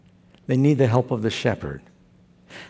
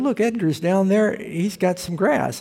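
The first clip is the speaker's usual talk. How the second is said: excited sheep; 6 semitones higher than usual. Pretend. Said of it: "He said".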